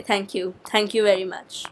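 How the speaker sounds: sarcastic. Acted. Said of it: "Very sarcastic".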